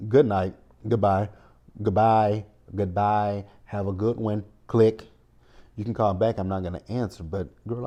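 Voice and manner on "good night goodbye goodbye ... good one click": firm, louder goodbyes cutting the caller off; dismissive sign-off. Pretend. Host pretends to hang up on someone yelling, dismissive. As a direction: act out a curt, dismissive hang-up.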